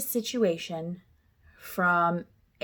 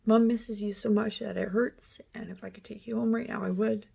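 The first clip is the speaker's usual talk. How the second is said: tender to daughter. Retold or imitated. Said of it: "I looked back at her and I said".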